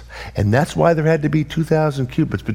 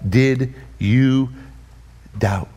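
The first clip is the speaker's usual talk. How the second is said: gentle rebuke; much slower than usual. Retold or imitated. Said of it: "said to him".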